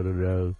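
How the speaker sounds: đơ đơ said dead level with no tone marks; lightly mimicked foreign monotone on đơ đơ; flat toneless imitation. Shown as a demonstration. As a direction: imitate an American flattening đơ đơ. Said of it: "mấy anh nói đơ đơ".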